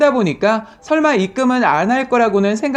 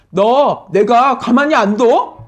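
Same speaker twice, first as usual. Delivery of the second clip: glaring threat; slower than usual. Retold or imitated. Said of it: "저를 째려보면서".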